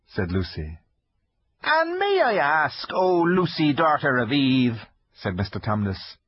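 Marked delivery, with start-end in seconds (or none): 1.6-4.8 high, timid fawn voice; nervous polite faun; shy fawn voice. Acted. Fawn character voice.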